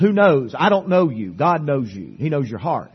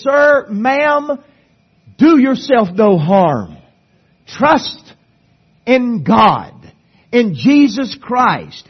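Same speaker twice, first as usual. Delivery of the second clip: pleading call; 7 semitones higher, 5 dB louder, slower than usual. Acted. Pleading with the lost.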